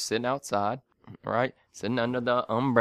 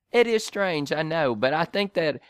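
higher, halting British caller; imitated British accent; 4 semitones higher than usual. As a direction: mimic a Brit stumbling through an explanation. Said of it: "you have a British accent".

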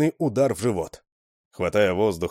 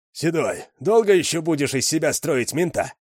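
put-on higher, whining young voice; whiny complaint; 7 semitones higher than usual. A narrator's reading. Young Rzhavy whines at Sedoy, high and complaining. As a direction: whine at the boss. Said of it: "проныл Ржавый".

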